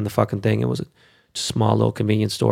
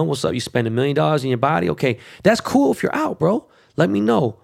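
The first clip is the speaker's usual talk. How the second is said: high mock casual voice; 5 semitones higher than usual. Talking to LeBron, mock casual.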